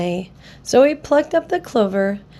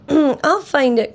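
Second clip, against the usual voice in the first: determined cry; 4 semitones higher, slower than usual. Acted. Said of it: "cried Horton".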